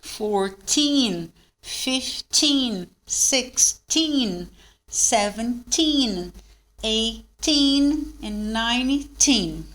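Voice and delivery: put-on "fourteen" to "nineteen" with long stressed "teen"; slow count, TEEN held in "eighteen", "nineteen". Shown as a demonstration. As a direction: stretch the ending of "sixteen", "seventeen" to a clear n. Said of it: "Stress é no teen".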